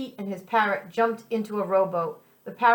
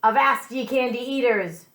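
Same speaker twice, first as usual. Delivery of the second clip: pirate voice; 3 semitones higher than usual. Acted. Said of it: "Pete ordered to the islanders".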